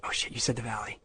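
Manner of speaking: whispered, breathless with dread; a frightened whisper to himself; panicked whisper. Retold or imitated. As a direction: hiss it to yourself in alarm. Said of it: "And I went".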